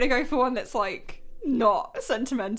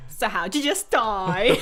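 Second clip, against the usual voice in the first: mock ghost question; 8 dB louder than usual. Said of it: "You could be like".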